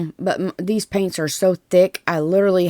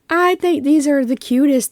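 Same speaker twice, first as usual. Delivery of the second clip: gushing; 9 semitones higher, 3 dB louder than usual. Real, not acted. Gushing over cute transfers.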